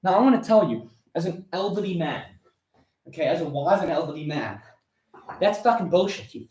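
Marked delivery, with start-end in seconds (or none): 1.1-4.6 mock-wise elder. Mock solemn self-description as elder.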